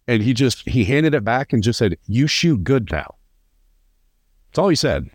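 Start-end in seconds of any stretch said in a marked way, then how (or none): 2.1-3.1 put-on slow, higher broken English with an Italian accent. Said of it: "in his, like, broken English, Italian accent".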